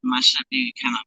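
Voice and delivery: glitchy robotic connection voice; choppy robotic internet audio. Real, not acted. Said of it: "your voice is sounding robotic now".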